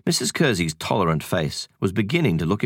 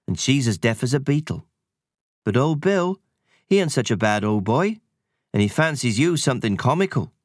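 lightly voiced cheeky country sprite; a hint of a rustic sprite; 7 semitones higher than usual. Sprite gossiping.

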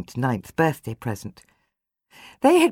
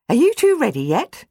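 raised voice calling from the hallway; 10 semitones higher, 6 dB louder than usual. Acted. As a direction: call out to the children.

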